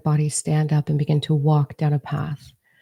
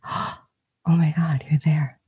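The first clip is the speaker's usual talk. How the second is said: gasped surprise. Pretend. Inner child sees you, gasps.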